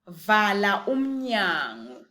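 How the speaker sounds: Vala umnyango drawn out slowly; slow teaching model. Shown as a demonstration. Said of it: "How would you say".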